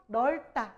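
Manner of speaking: 넓다 said as "neol-tta"; pronunciation demo. Shown as a demonstration. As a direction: keep ㄹ in 넓다, no p. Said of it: "이렇게 읽어".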